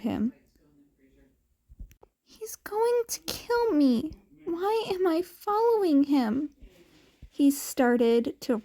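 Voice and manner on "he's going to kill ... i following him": frightened whisper. A narrator's reading. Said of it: "murmured to himself".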